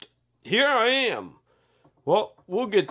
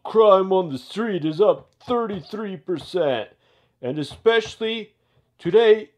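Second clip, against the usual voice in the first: loud, higher commanding briefing; barking police chief; 4 semitones higher, 3 dB louder than usual. Acted. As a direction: bark orders at the squad.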